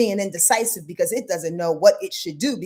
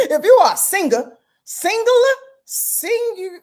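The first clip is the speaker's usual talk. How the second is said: louder and higher, laughing at the slip; goofy self-correction; 10 semitones higher, 6 dB louder than usual. Real, not acted. Astrologer fixing a misread word, loud and amused. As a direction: correct yourself with a giggly lift. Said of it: "I'm so freaking goofy".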